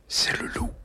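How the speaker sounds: hushed murmur of a name; whispered. A narrator's reading. Mother murmuring to her son at the wolf cage, hushed. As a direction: breathe his name under your voice. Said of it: "murmure maman".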